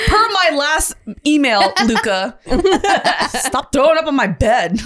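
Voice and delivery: mock formal email voice, laughing; business talk. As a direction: read it like a stiff memo. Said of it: "business talk".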